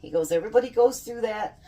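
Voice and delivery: lightly voiced comforting husband; a hint of reassuring husband; husband consoling. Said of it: "And he's like".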